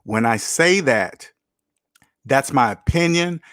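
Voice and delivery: slow, deliberate "When I say that"; making it clear. Real, not acted. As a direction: stretch out "When I say that" for clarity. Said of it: "this is clear".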